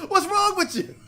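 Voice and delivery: fed up with this guy; exasperated and angry, laughing in disbelief; real exasperation. Real, not acted. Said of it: "I'm mad".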